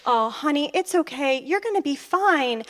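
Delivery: coaxing "there, there" comfort; acted-out tender reassurance; soothing reassurance. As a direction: show him how to comfort her. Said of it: "I needed you to just say".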